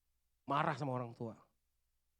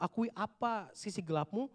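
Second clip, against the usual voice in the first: ordinary talk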